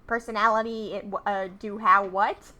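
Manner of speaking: raspy villain Skeletor impression. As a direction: sneer it like a cartoon villain. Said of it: "My Skeletor voice is just my Starscream voice".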